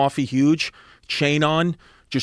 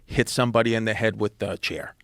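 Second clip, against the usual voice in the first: calm, controlled retelling of a father. Retold or imitated. Dad addressing the principal about his son, very calmly. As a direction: state it evenly, without any heat. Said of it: "very calmly".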